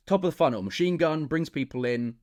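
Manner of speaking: emphatic recap. Real, not acted. Recapping funnel stages, emphatic.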